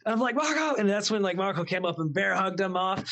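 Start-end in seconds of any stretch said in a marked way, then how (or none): 0.4-0.8 high mock yell; retold call for help. Storyteller calling Marco to stop Edward, high mock shout. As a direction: imitate hollering for backup.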